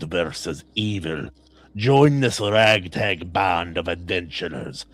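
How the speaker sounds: attempted Russian accent. Host reads a fantasy book blurb on request, attempted Russian accent. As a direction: read it like a movie trailer with a shaky Russian accent. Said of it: "do this in a Russian accent".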